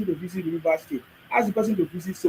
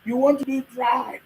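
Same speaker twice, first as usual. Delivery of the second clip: mocking shout; 6 semitones higher, 4 dB louder than usual. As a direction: yell it like an indignant complainer. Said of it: "you say".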